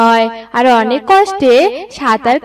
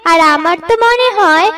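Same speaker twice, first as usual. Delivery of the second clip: higher, anxious story voice; frightened wife; 5 semitones higher than usual. Acted. Wife begging husband not to go into the flood, mildly frightened. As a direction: plead with mild, acted fear. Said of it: "আমার অনেক ভয় লাগছে".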